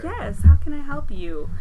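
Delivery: a bright customer-service phone voice, a little slow; polite phone voice. Shown as a demonstration. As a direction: sound sweetly helpful to a caller. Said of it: "that higher tone, white people voice".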